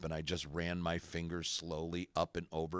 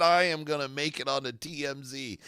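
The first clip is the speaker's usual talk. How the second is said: retold excited boast; 7 semitones higher, 6 dB louder than usual. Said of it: "I said".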